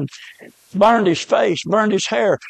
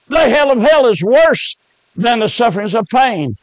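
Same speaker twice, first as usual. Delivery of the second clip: preaching emphasis; 3 semitones higher than usual. Real, not acted. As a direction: hammer the refrain harder. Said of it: "preacher repeats refrain louder".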